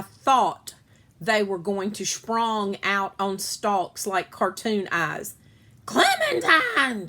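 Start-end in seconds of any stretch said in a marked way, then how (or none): 5.8-7.1 high, loud gasp of shock. A narrator's reading. Sister gasping at Clementine's feet, shocked. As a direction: gasp the name out in alarm. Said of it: "she gasped".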